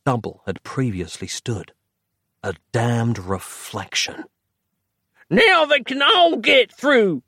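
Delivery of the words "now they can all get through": high, slow howl of despair; old man howling. A narrator's reading. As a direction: wail it out in dread. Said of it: "howled the grey man-bag".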